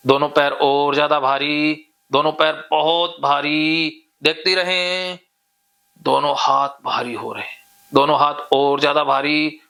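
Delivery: steady, repetitive chant-like suggestions, key words stretched; hypnotic induction. Real, not acted. Hypnotist telling a client the body is loose and heavy, hypnotic drone. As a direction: guide them insistently down toward sleep. Leads hypnosis toward deep sleep.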